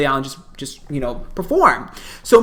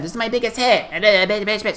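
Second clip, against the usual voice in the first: higher mock stage announcement; mock singer announcing; 3 semitones higher than usual. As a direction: imitate a singer plugging her song. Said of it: "She said".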